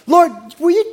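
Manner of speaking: pleading prayer. Acted.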